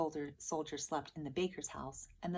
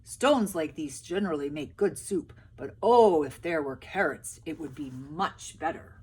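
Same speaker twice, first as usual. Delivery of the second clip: loud, coaxing soldier; soldiers' voice; 9 dB louder than usual. A narrator's reading. Soldiers coaxing peasants for carrots, loud and sly. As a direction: coax them with a big voice. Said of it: "said the soldiers".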